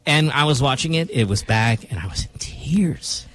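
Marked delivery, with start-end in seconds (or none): 1.9-3.3 whisper. Real, not acted. Recalling crying over Voltron.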